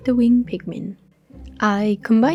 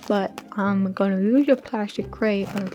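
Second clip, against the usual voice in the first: mouth full. Real, not acted. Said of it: "it's rude to speak with your mouth full".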